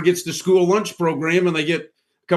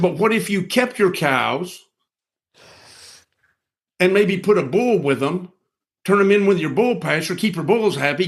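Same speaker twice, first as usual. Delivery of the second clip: patient advice; 5 semitones higher than usual. Retold or imitated. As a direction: lay it out gently like advice to a friend. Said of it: "And I said".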